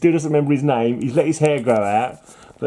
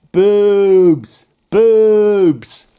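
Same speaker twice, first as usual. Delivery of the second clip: high, louder goofy shout; hammed-up booming exclamation; loud mock yell; 7 semitones higher, 10 dB louder than usual. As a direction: blurt it out like a leering cartoon. Excited leering exclamation.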